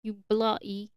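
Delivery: hammed-up mock British cursing; British accent. Podcaster showing how Brits curse, in a put-on British accent. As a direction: put on a playful British accent, drawing out the last words. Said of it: "And a British accent is a little bit different".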